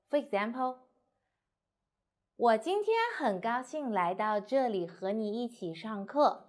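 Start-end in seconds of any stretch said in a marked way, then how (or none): 1.6-6.5 whole sentence in one breath; without pauses. Shown as a demonstration. Teacher showing a long sentence is too hard, run together without pauses. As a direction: run the phrase on without stopping. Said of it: "say this sentence without breath".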